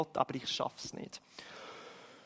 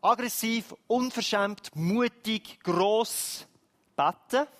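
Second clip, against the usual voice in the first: bold insistent praying; 4 semitones higher, slower than usual. Shown as a demonstration. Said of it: "die Lösung ist unglaublich aggressiv".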